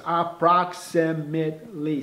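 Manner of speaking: approximately said slowly, syllable by syllable; syllables spelled out. Shown as a demonstration. Teacher showing students all five syllables. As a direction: stretch out approximately to show its length. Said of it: "Cinco sílabas".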